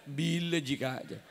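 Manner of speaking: wife laughing. Pretend. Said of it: "Apa kata istrinya?".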